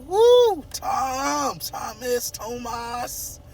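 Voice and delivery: high squealing woo, teasing Tom; playful fanboy squeal; playful hype. Pretend. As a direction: hype him up like a fan. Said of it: "I'm playing".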